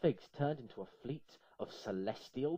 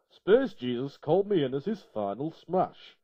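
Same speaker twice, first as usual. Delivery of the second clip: God's loud, put-on Yorkshire voice; a loud Yorkshire accent explaining; 3 semitones higher, 10 dB louder than usual. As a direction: explain it in broad Yorkshire, loudly. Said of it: "thick Yorkshire accent".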